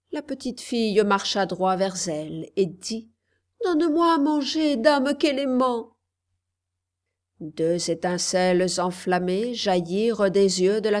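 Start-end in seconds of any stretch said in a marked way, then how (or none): 3.6-5.9 put-on higher, firm little girl's voice; girl confronting the witch; bold child's demand. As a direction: demand it naming her. Girl names the witch boldly.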